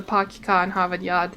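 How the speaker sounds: lightly attempted Boston accent. Shown as a demonstration. Streamer quoting the Boston accent catchphrase, Boston accent. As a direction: drop the r's, Boston style. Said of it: "people don't actually talk like that".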